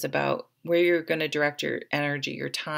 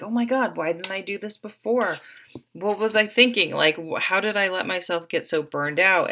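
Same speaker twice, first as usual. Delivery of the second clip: amazed realisation; 3 semitones higher, 3 dB louder than usual. Acted. Tarot reader voicing a newly inspired client, amazed. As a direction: exclaim it as a sudden, mildly astonished realisation.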